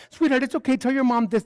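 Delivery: high-pitched, coaxing comfort; sweet reassurance. Pretend. Imagined clerk comforting child translating for mom, sweetly. Voices the kind reply they wanted.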